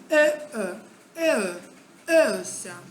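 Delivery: the e vowel shown slowly, mouth moving; drawn-out e sound. Shown as a demonstration. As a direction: glide "e" from closed to open central. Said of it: "You have to move this way".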